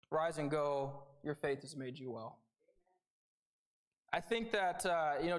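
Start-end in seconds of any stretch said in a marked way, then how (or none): 0.1-2.4 gentle blessing. Acted. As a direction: send him off tenderly. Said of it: "Jesus says to him".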